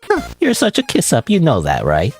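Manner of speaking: teasing high clown jab; mock the kiss-up playfully. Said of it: "It's a clown voice".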